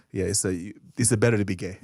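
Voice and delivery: low mock Korean accent; halting imitation of Korean-accented English; imitated Korean accent. Comedian invents a line for the Korean guy, Korean accent.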